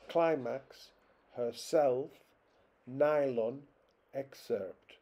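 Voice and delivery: "although, maintain, contract, program, climax, herself, nylon, excerpt", both vowels full in each word; spaced word list with neither vowel reduced, from "although" to "excerpt"; two strong vowels. Shown as a demonstration. Lecturer listing exceptions to weak vowels, both syllables given full vowels. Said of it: "All of these contain two strong vowels".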